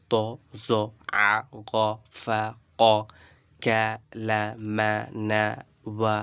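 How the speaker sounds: short open syllables, each set apart; না টেনে পড়া. Shown as a demonstration. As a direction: recite each letter sound without dragging it. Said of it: "টেনে পড়বেন না". (টান ছাড়া, থেমে থেমে আরবি হরফ পড়া)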